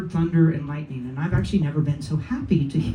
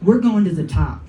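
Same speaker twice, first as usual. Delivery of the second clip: military voice. Retold or imitated. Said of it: "Same military voice".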